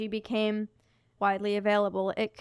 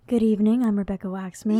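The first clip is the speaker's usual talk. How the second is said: announcer voice. Retold or imitated. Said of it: "she has this announcer voice where she goes".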